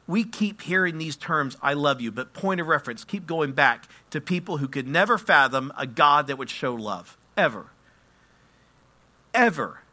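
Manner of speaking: emphatic sermon delivery, pressing the point; impassioned preaching. Real, not acted. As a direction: preach it with force, driving each phrase. Preaches with rising force.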